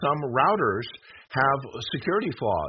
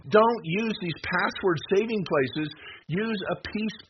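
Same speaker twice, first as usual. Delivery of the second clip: urgent raised warning; 7 semitones higher, slower than usual. Real, not acted. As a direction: raise your voice to warn them. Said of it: "sorry, I'm raising my voice".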